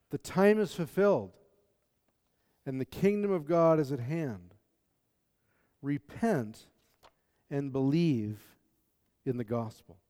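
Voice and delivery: slow, solemn Bible reading; scripture reading. Acted. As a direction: read the verses reverently.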